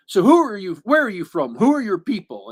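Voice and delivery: lightly voiced recruiter, punching each question; imitated recruiter questioning. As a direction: fire off questions with rising pitch and emphasis. Acts out recruiter's questioning of Han.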